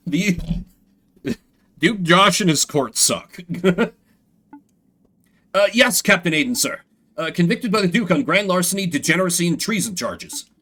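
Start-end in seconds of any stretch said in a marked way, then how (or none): 5.5-10.5 fast, higher nervous guard; Larry reporting to Captain Aiden, fast and eager; eager underling. Acted. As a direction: rattle it off to please the captain.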